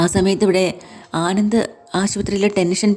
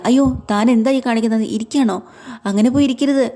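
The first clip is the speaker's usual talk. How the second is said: fake concern; 5 semitones higher than usual. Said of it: "Anand കാണിക്കുന്ന അഭിനയമാണെന്ന്".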